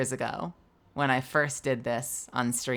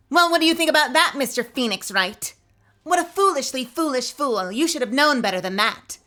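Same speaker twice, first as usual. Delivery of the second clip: much higher, louder, fast haughty prosecutor; Franziska von Karma voice; 9 semitones higher, 6 dB louder than usual. Acted. Prosecutor Franziska mocking Phoenix Wright in court, high, loud, haughty. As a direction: sneer down at Phoenix like an arrogant prodigy. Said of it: "I try to channel that into Von Karma".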